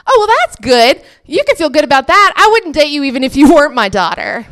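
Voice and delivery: hammed-up fatherly reassurance, fast and loud; dad's reaction. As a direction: rattle it off brightly as an oblivious dad. Dad's retold reaction, acted.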